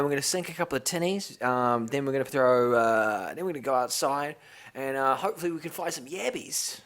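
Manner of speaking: put-on Australian accent. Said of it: "do Ted Smith".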